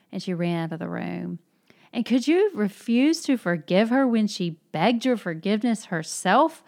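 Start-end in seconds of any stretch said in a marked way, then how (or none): 1.9-6.6 loud, higher, bitterly reproachful question; bitter exclamation. Acted. Mitya reproaching Grushenka over forgiveness, bitter exclamation. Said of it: "Mitya exclaimed bitterly again".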